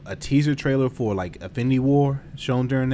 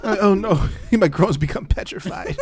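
mock English accent; 8 semitones higher, 4 dB louder than usual. Continuing the English lady bit.

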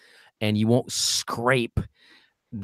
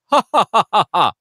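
high, loud, punchy ha ha ha; supported ha; 9 semitones higher, 5 dB louder, faster than usual. Shown as a demonstration. Coach demonstrating support for the class: punchy ha's. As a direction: punch each ha from the belly. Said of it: "let's give it a try".

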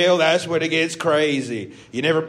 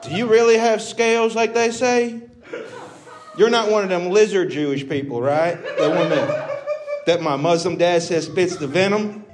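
hammed-up crowd work; 6 semitones higher than usual. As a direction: lean in and needle her. In character teasing audience member.

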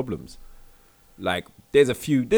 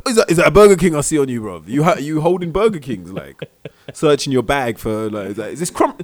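bouncer searching bag; 5 semitones higher, 9 dB louder than usual. Pretend. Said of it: "He's like".

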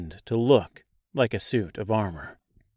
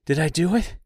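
higher, amazed question; complete astonishment; 5 semitones higher, faster than usual. A narrator's reading. Scarecrow asking Dorothy in complete astonishment, higher pitched. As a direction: ask it as if you can't believe yourself. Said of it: "he asked in complete astonishment".

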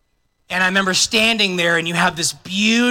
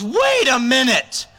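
surprised taster; 3 semitones higher, slower than usual. Acted. Master of ceremonies tastes the wine.

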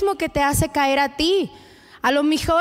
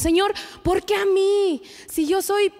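whiny complaint; 4 semitones higher than usual. Retold or imitated. Mock whiny prayer to God.

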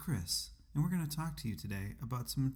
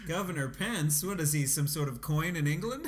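mocking; 4 semitones higher, 3 dB louder than usual. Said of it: "make fun of his name".

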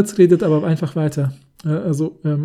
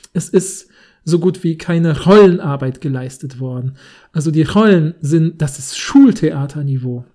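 loud dismissive verdict; contemptuous director; 5 dB louder than usual. Pretend. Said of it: "in der Art vorzulesen".

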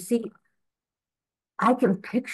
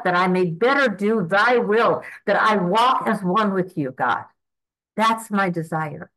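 earnest prayer; 3 semitones higher than usual. Acted. Praying aloud to God, offering herself, in earnest prayer. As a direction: pray it from the heart, unhurried.

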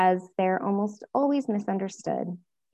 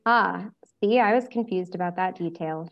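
sarcastic. Acted. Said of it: "she answered sarcastically".

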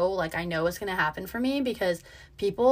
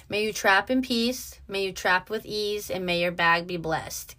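quoted mantra. Retold or imitated. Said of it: "Queens of the Underworld quote".

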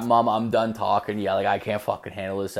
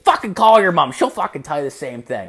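loud, high mock-dad outburst; exasperated retort; 4 semitones higher, 5 dB louder than usual. Dad daring son to call mom, exasperated retort. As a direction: throw it back louder and higher. Dad snapping back, retold.

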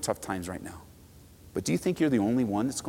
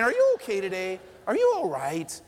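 a caring check on a neighbour; gentle concern; 5 semitones higher than usual. Shown as a demonstration. Pastor modelling a kind question to a grouchy person, gently. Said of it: "I mean".

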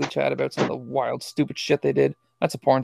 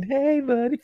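higher, casual buddy greeting; friendly greeting; 9 semitones higher than usual. Retold or imitated. Acting out a buddy's casual hello, friendly greeting. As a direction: greet like a pal. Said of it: "Just friendly greeting".

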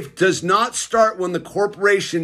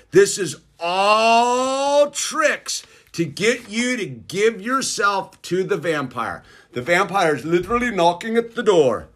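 vampire voice; 2 semitones higher than usual. Acted. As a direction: hiss it like a feral vampire. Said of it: "I gotta get my van-, vampire voice going".

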